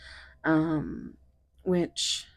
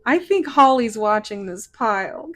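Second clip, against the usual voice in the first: loud, higher giggling through words; can't stop laughing, louder; 10 semitones higher, 12 dB louder than usual. Real, not acted. Laughing fit after flubbing words.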